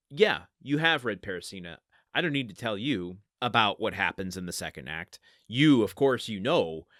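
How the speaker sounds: emphatic, presuming "you"; mock-confident flattery; knowing assumption. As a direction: assure the reader they surely know it already. Voices author flattering the reader's knowledge.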